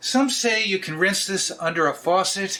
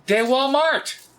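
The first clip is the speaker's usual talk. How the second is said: mock French yell; 5 semitones higher, slower than usual. Vlogger showing cheap bread, hammed-up French shout. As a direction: belt out a store name like grand French. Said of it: "Why am I always yelling?".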